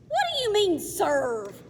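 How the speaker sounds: high, loud, shocked question; startled demand; alarmed. Acted. Boy alarmed.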